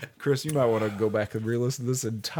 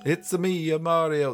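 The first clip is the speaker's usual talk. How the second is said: higher mock-Italian catchphrase; lightly done cartoon Italian; Mario; 5 semitones higher, 3 dB louder than usual. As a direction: attempt the game plumber's voice. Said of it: "what I was trying to go with".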